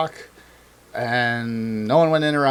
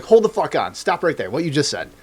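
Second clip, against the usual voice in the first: mock argument; 2 semitones higher than usual. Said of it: "in an argument with somebody".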